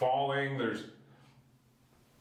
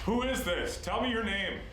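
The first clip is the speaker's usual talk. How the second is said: high, raised call to the unseen; demanding of a spirit; 8 semitones higher than usual. Real, not acted. Investigator demands the spirit's name, high insistent call. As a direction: press for an answer, pitched well up.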